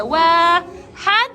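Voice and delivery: each number drawn out slowly and separately; slow counting. Shown as a demonstration. Teacher models counting each item separately, slowly. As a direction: count one at a time, slowly. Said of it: "وكل واحد لحال".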